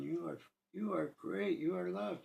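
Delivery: peaceful reassurance. Retold or imitated. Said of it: "look of peace in his eyes".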